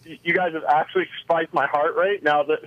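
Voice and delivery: slightly winded, pedaling while talking; talking while cycling. Real, not acted. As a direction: talk mid-ride, breath a bit short from cycling. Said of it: "trying to talk and ride".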